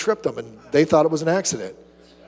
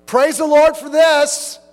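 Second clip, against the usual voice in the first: higher, louder mock piety; hammed-up pious exclamation; 8 semitones higher, 6 dB louder, slower than usual. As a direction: ham up a fake praise. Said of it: "we try to make God".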